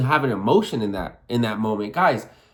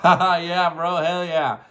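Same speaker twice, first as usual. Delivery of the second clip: amused, hearty hype-back; acted laughing approval; laughing agreement; 2 semitones higher, slower than usual. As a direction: imitate friends laughing along. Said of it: "And they'll laugh".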